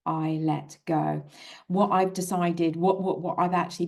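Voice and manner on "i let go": slow mantra. Shown as a demonstration. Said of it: "internally I would be saying to myself".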